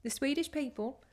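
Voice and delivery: exaggerated mock Swedish accent; Trixie Mattel. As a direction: put on a comic Swedish accent. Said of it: "what does Trixie Mattel do".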